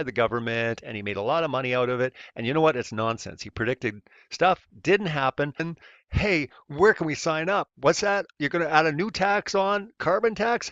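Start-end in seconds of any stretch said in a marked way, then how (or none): 5.6-10.7 high, mock-eager sarcasm rising; sarcastic eagerness. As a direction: pretend to be thrilled by taxes.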